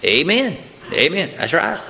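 a hint of an eager amen-corner voice; approving congregant. Congregant answering a strong word from the preacher, lightly mimicked approval. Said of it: "many people amen that".

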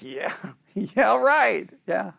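sarcastic agreement with a chuckle; mock-agree through a small laugh. Teacher answering a student's wrong answer, sarcastic. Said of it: "I'm being sarcastic".

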